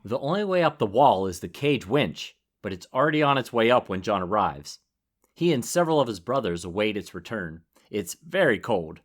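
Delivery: measured read-aloud chapter summary; story narration. Real, not acted. Co-host telling listeners of the climb, narrating.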